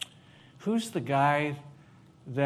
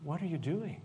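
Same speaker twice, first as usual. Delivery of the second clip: softer What are you doing? with a rise on are; quiet questioning; 2 semitones higher, 4 dB quieter than usual. Shown as a demonstration. Acting class demo, asking gently and curious. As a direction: ask it softly, curious. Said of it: "you gotta say the phrase like".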